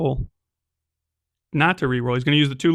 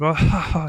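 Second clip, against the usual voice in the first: villain cackle; 2 semitones higher than usual. Acted. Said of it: "the governor's voice kind of cackling".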